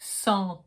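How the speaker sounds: "centre" with nasal "en" and gargled R; correct French pronunciation. Shown as a demonstration. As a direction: say "centre" ending on R, no final E. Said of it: "So you get".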